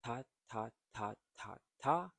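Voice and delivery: each ta equal, separate and evenly spaced; no rhythm. Shown as a demonstration. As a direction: say "ta, ta, ta, ta, ta" as five identical beats. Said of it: "you don't say it".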